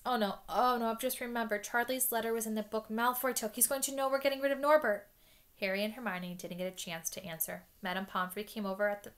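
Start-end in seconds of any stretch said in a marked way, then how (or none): 0.1-5.1 rising, louder panic, voice climbing high; a frightened boy blurting it out, getting louder; panicked. Acted. Ron realising Malfoy has the letter, panicking louder.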